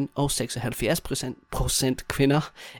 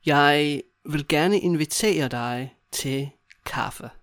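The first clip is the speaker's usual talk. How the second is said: slow, broken into small chunks; walk a learner through it slowly; slow demonstration; slower than usual. Shown as a demonstration. Teacher modelling a coffee invitation to a friend, slowly.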